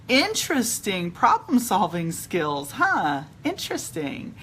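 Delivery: slow, mock-impressed musing, rising at the end; wry, exaggerated marvelling; retold sarcasm. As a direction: draw it out as if fascinated. Sarcastic retort on hearing she's manager.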